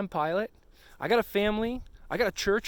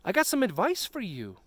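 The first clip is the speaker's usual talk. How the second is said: a lightly voiced, higher, gentle God; God's voice; 7 semitones higher than usual. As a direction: coax the boxer back like a caring coach. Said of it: "even when God is telling you".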